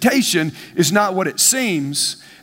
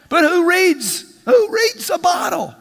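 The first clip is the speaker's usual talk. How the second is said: rising preacher shout; 9 semitones higher than usual. Real, not acted. Preacher challenges the congregation about reading labels, building shout.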